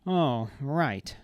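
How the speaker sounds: loud, playful, feral tone. A narrator's reading. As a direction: toy with them playfully. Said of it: "voice playful and feral".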